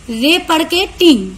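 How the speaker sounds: रे and टिंग said as separate beats; split into syllables. Shown as a demonstration. Teacher showing two syllables in rating, रे and टिंग apart. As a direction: break it after रे, then land टिंग. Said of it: "दो बार यहाँ पर जोर लगा रहे हैं".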